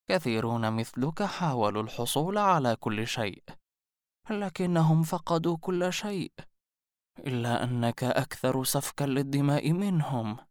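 lightly voiced old seer, ominous; mysterious old woman. A narrator's reading. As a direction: warn him like a prophetess. (عجوز غامضة منذرة)

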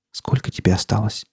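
softly voiced, careful question; hushed, hesitant question; quietly asking. A narrator's reading. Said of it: "тихо спросила она".

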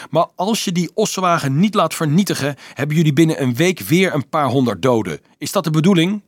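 high, loud, heated warning; angry yelling. A narrator's reading. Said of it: "gilde Dolf".

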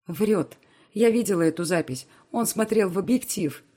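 loud outraged cry; outraged shout. Acted. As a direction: shout the accusation. Outraged at the liar's excuse.

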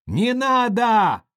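high, loud, slow desperate cry; boy begging his drunk father to stop; child's cry. Acted. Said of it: "закричал, затрясся вдруг Колька".

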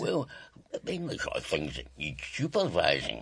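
half-hearted fake Scottish accent. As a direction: bluff it in shaky mock Scottish. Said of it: "What happened to your Scottish accent".

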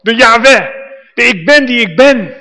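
loud and high, proclaiming God's names; grand proclamation. Retold or imitated. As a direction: announce it like a herald, loud and high. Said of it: "dan zeg je".

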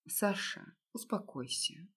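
soft, hushed comfort to her husband; calm him quietly; gentle soothing. Acted. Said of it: "мягко сказала я". (мягко, тихо успокаивая)

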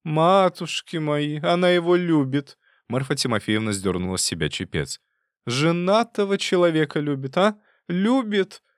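an aunt aghast at her niece's confession; shocked old aunt. A narrator's reading. Тётка потрясена признанием. (потрясённая тётка восклицает громко и высоко)

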